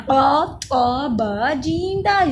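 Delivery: careful letter-by-letter tajweed demo; Qalqalah letters. Shown as a demonstration. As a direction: recite the five letters one by one. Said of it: "कलकला वाले पांच हरूफ हैं".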